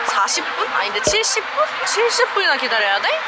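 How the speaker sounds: rising shock, voice climbing high; surprised. Real, not acted. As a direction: react in disbelief at the wait. Shocked at seventy-minute wait.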